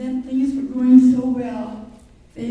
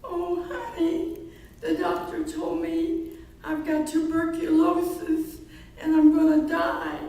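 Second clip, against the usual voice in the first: mock crying; 5 semitones higher, 4 dB quieter than usual. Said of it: "and she's crying".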